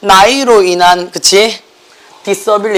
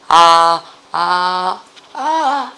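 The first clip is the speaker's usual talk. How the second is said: vocal cord demo; much slower than usual. Shown as a demonstration. Teacher showing students what the vocal cords do, thinning "ah". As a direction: hold an "ah" as it thins out. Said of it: "이렇게 된다고".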